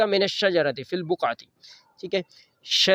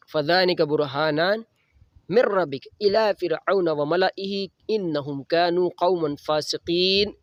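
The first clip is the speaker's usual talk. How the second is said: slow, measured recitation of the verse; Quran recitation; slower than usual. Acted. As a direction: recite steadily and reverently. Quran recitation within the sermon. (آہستہ قرآنی تلاوت)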